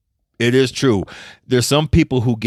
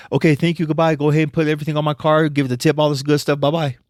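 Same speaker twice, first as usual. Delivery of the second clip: higher, fast mock client in a hurry; flustered client rushing off; 5 semitones higher, faster than usual. Embarrassed client leaving the receptionist, higher and hurried. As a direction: rattle it off like she can't leave quick enough.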